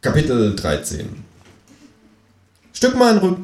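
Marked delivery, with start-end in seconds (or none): 2.7-3.4 high-pitched demanding kangaroo; high talking-animal voice. A narrator's reading. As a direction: order it in a high creature voice. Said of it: "sagt das Känguru".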